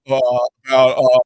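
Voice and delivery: halting, with stretched filler sounds; hesitant, reluctant retold answer; nervous stammer. Reporter answering the manager's repeated question, nervous stammer. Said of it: "I'm starting to sweat".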